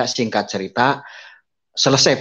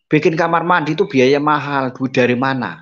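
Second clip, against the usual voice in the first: doubting father; 4 semitones higher than usual. Retold or imitated.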